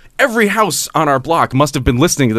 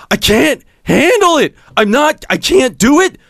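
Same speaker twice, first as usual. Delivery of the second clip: high, strained and louder, slowing down; mock drunk screaming; 7 semitones higher, 4 dB louder than usual. Quoting a drunk neighbor yelling at his friend, mock scream. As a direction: play the sobbing drunk who can't cope. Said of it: "this guy just starts screaming at the top of his lungs".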